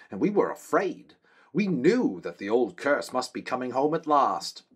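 high, earnest soldier's voice; a loyal guard reporting to his king; young man-at-arms. Acted.

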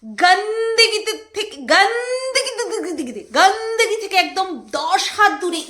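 mock imitation. Mocking boudi's word.

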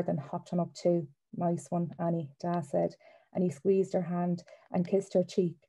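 first-person story reading, evenly paced; story narration. Acted. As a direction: author reading their book aloud. Author reads novel aloud.

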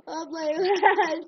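slow drawn-out wail; desperate shout. Real, not acted. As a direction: plead loudly, stretched out. Pleading shout in game.

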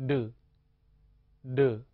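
的 said short, on its own; short syllable. Shown as a demonstration. Teacher spells with a short vowel, 的 said briefly. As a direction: give 的 as one brief isolated syllable. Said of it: "读作".

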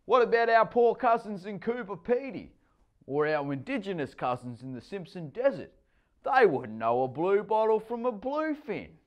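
high, loud preachy bluster; mock-grand lecture. A narrator's reading. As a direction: lay it on thick.

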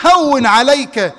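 slow, drawn-out calming words; soothing reassurance. Retold or imitated. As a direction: stretch it out to settle a trembling man. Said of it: "فقال له النبي".

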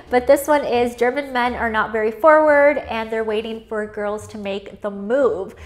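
normal talking voice

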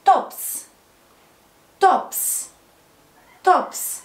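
"توبس" ending in a voiceless ps; final s sound. Shown as a demonstration. Teacher drilling tops for pupils, "توبس" ending in s. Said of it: "اس، وسمعناها ايه؟".

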